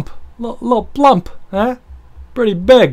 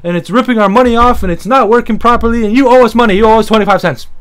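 loud indignant rant, fast and higher; mock angry customer; 4 semitones higher, 5 dB louder, faster than usual. Angry customer mimicked at laundromat.

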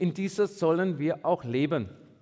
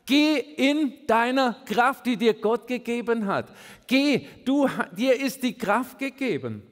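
encouraging angel; 3 semitones higher than usual. Acted. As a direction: send them off with firm encouragement. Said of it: "so jemand wie der Engel, der dir sagt".

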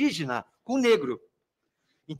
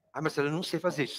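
complaining student; 3 semitones lower, 10 dB quieter, faster than usual. Pretend. Voices a student who can't do it.

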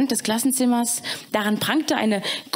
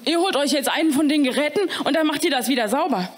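fast, slightly higher command; hasty caretaker order; 4 semitones higher, faster than usual. Acted. Caretaker Eddie ordering the students, fast and huffy. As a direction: rattle off the order in a huff.

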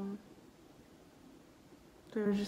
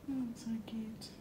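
tender whisper; 6 dB quieter than usual. Real, not acted. Cooing over newborn.

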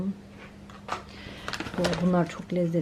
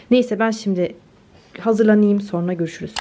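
normal talking voice

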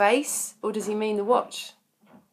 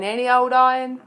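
mock kids' shout; 5 semitones higher, 6 dB louder than usual.

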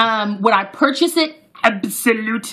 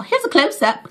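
put-on British accent; 5 semitones higher than usual. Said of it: "enough British accent for today".

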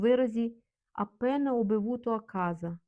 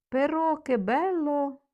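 higher, louder and slow; delighted exclamation; 6 semitones higher, 4 dB louder, slower than usual. Shown as a demonstration. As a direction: savor the beauty out loud. Exclaiming delight in Italian example.

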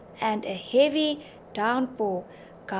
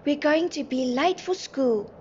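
high-pitched worried exclamation; raised voice, somewhat urgent; anxious cry; 5 semitones higher, 3 dB louder than usual. A narrator's reading. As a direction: cry out in mild alarm. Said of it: "Nelly cried".

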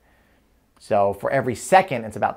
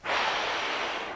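wind blowing breath; 10 dB quieter than usual. Pretend. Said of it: "somebody's going like".

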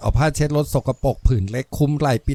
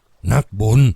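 low, slow incredulous exclamation; crying out; 4 semitones lower, 4 dB louder, much slower than usual. A narrator's reading. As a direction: echo the word in disbelief, drawn out. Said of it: "พระชรามร้องด้วย". (ร้องทวนคำอย่างไม่เชื่อหู)

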